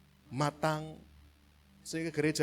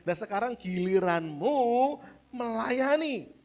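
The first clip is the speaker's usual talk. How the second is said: voice of Jesus; 9 semitones higher, 8 dB louder than usual. Acted. Jesus voiced addressing disciples.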